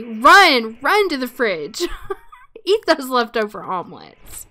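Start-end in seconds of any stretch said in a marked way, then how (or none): 0.0-1.8 a loud, urgent run; urging shout. Real, not acted. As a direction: call out to hurry the hungry Sim. Urging Sim to the fridge.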